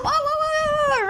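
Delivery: high playful pained ow ow; mock yelps. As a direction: squeal like a little dog in trouble. Toy dog being eaten.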